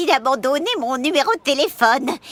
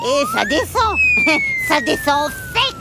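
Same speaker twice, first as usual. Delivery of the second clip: excited swoop. Acted. Bolduc telling children about the steep drop, excited high swoop. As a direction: pitch leaps far up on ça descend, then a giggle. Cable car plunging downhill.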